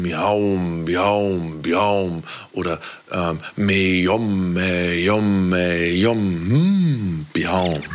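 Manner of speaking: tiefes, gedehntes Miauen; Kätzchenstimme. Shown as a demonstration. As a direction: wie ein Kätzchen miauen. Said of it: "meine Stimmensachen so". (Katzenmiauen als Stimmübung)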